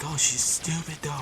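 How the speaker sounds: put-on a drunk girl shrugging off the slap; drunk whine.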